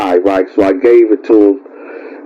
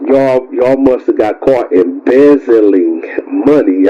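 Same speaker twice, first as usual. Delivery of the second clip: careful retake; slower than usual. Real, not acted. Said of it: "I can't even speak right".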